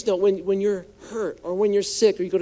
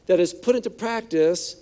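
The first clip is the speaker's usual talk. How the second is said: forceful scripture reading; 4 dB louder than usual. Acted. Preacher reading Romans to congregation, strong-hearted. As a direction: proclaim each line boldly.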